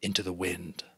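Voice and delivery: steady read-aloud storytelling voice; story narration. A narrator's reading. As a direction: tell the chapter to the class, calmly. Reads novel chapter aloud.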